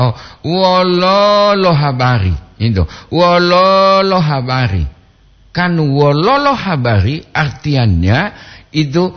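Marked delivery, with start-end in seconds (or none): 0.5-2.3 wololo with the middle O held long and raised; long double O. Shown as a demonstration. Host showing a listener how the greeting is written, long O. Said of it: "Tulisannya wolo, lob itu ada dua". 3.1-4.9 wololo drawn out slowly on a raised middle O; long double O. Shown as a demonstration. Host repeating the greeting for a listener, long O. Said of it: "lob itu ada dua".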